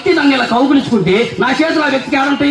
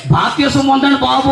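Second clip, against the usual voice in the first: coaxing appeal, pitched up; mock pastor's entreaty; pleading; 4 semitones higher than usual. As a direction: beg them to come, as in imitation. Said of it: "అని బతిమలాడుతుంటేనే".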